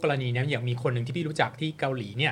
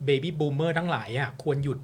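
slow and pointed; much slower than usual. Real, not acted. Speaking bluntly about old politicians, slow and pointed. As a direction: drag it out, each word weighted.

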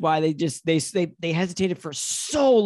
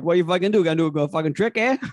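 put-on Boston accent; faster than usual. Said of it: "That's a Boston accent".

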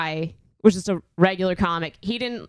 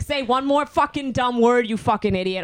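higher-pitched mock threat; retold furious threat; 4 semitones higher than usual. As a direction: replay losing it at him. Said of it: "I, like, lost my shit".

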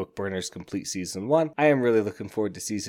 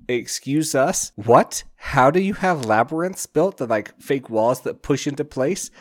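loud, higher-pitched mock disbelief; acted-out "what on earth?" outburst; incredulous; 5 semitones higher, 6 dB louder than usual. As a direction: demand an explanation in baffled astonishment. Everybody's retold baffled reaction.

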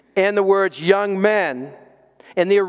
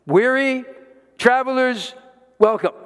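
bright proclamation; 7 semitones higher than usual. Shown as a demonstration. Proposed church sign, lifted.

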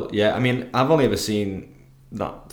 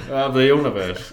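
put-on Yorkshire accent; 2 semitones higher than usual. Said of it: "in his Yorkshire accent".

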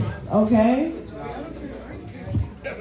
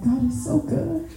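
mock cheery, high and soft; squeaky fake-happy cover-up; 7 semitones higher, 6 dB quieter than usual. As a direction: play it off with a high, bright little voice. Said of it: "I was like".

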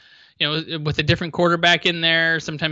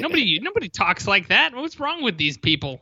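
put-on New York accent; 4 semitones higher than usual. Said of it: "our terrible New York accents".

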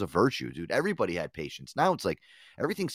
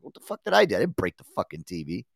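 mock indignant lady; 2 semitones lower than usual. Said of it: "She's like".

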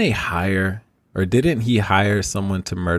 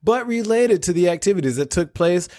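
news anchor voice; 3 semitones higher than usual. Pretend. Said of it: "give my best news anchor voice".

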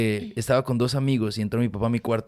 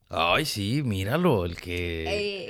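mocking snob; 4 semitones lower, 3 dB quieter, much slower than usual. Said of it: "pronuncias la palabra bien".

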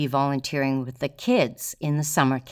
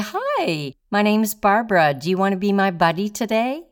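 put-on high, cheery voice for a shy boy; bright greeting to a child; 5 semitones higher, 4 dB louder than usual. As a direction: sing out a friendly hello. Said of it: "and I say".

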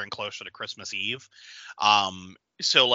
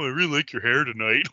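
awkward compliment. Retold or imitated. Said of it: "really just awkward and painfully bad".

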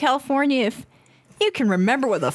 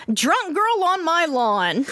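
put-on southern accent; 5 semitones higher, slower than usual. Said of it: "control my southern accent".

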